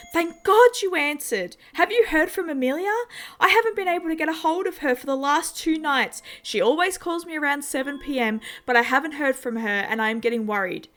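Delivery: high, loud and frantic, rushing; a mother scared for her daughter; panicked mother. A narrator's reading. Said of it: "Her voice sounded panicked".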